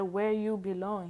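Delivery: mild, narrated yell. A narrator's reading. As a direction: raise the voice in a commanding question. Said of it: "He yelled to me".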